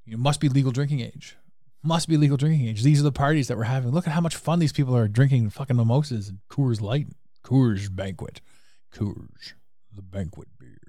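mock TV commercial voice; hammy beer ad announcer. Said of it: "these shows that have said".

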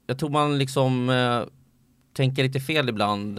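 normal talking voice

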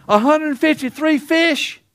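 high, slow, astonished question; amazed disbelief. Real, not acted. Preacher marvels to the congregation at the catch, high and slow.

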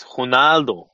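Ronaldo with a breathy Brazilian H for the R; Brazilian accent. Shown as a demonstration. Correcting a co-host on a player's name, Brazilian accent. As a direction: draw out Ronaldo in Brazilian Portuguese, "Honaldo". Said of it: "make him as Brazilian as possible".

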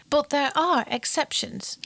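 whispered, with a playful secret tone; conspiratorial whisper to the audience; stage whisper. Acted. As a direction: let them in on a secret, whispering. Teasing aside to listeners.

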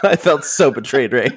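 says it through a real laugh; chuckling while admitting it. Real, not acted. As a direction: laugh at your own gullibility. Laughing at own embarrassment.

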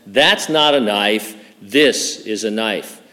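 slow, a hint of an Australian accent; Aussie accent. Pastor quoting Crocodile Dundee to the congregation, light Aussie accent. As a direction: quote it with a light Aussie twang, unhurried. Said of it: "in his irrepressible Aussie accent".

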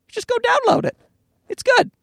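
high, salesy plug; high-pitched mock ad voice. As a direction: sell it like an ad. Plugging the podcast to passerby.

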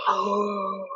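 soft, drawn-out mock dread; quiet retold shock; hushed alarm. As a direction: let out a small worried oh. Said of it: "and I'm like".

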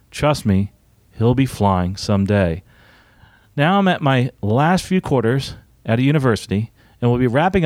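measured read-aloud with lilting emphasis; podcast host reading out listener mail; reading a letter aloud. Acted. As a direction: read it out deliberately, pausing between phrases.

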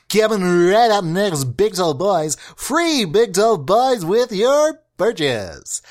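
slow, drawn-out announcer read; hammed-up announcer voice. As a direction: sell it like a radio promo. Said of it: "do that announcer voice".

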